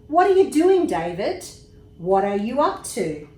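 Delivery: high, loud call from another room. A narrator's reading. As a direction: call out to the child. Parents calling to David.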